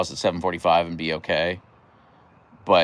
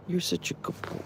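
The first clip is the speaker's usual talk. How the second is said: much higher, softer pet voice; squeaky praise; 11 semitones higher, 8 dB quieter than usual. Real, not acted. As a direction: squeak it sweetly to the dog. Praising her dog.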